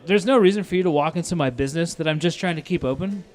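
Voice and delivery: heated but retold complaint; retold pissed-off scolding. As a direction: re-enact scolding a rude customer. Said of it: "I'm fucking pissed".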